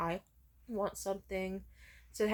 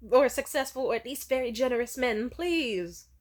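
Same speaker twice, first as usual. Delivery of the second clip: mom's advice; 5 semitones higher, 7 dB louder than usual. Retold or imitated. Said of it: "reaffirming behavior of".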